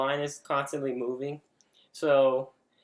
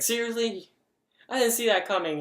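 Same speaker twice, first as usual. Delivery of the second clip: high-pitched indignant protest; exasperated high-pitched complaint, acted out; mock indignation; 8 semitones higher than usual. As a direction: retell being annoyed, voice jumping up high. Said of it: "I was just mad".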